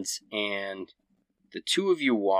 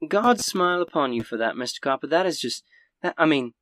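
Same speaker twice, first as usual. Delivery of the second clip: put-on lightly southern older woman, pitched up; a hint of a grateful southern lady; southern accent; 5 semitones higher than usual. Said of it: "she's turning southern suddenly".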